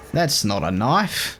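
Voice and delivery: slow, hammed-up Australian accent, badly done; a bad Crocodile Dundee-style Australian drawl; terrible Australian accent. Gamer quoting a film to a co-player in a bad Australian accent. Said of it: "that's a terrible Australian accent".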